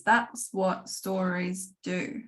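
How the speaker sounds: slow, and land each word deliberately; slow emphatic statement. Shown as a demonstration. A writing teacher stating her key lesson slowly, with emphasis. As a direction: make it the lesson's key point. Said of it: "repeats the line as a slow statement".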